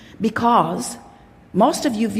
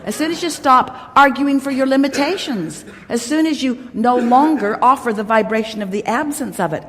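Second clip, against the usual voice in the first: firm playful scolding; 4 semitones higher than usual. Acted. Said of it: "And we say".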